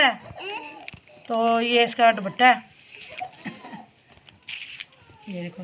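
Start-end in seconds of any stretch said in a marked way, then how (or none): 3.5-5.6 laughing. Real, not acted.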